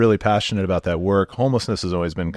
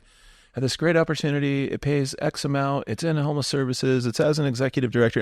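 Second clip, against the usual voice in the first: a hint of a Midlands English accent, pitched higher; light Midlands accent; 7 semitones higher than usual. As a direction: lightly mimic the Midlands recruiter on the phone. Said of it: "It sounds like a Midlands accent".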